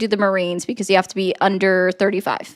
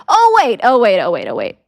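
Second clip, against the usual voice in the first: sarcastic oh wait; 2 semitones lower than usual. Real, not acted. Sarcastic mock realization.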